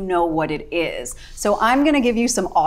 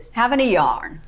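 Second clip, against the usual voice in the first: bad Australian accent; 2 semitones higher, slower than usual. Shown as a demonstration. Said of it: "That was terrible accent".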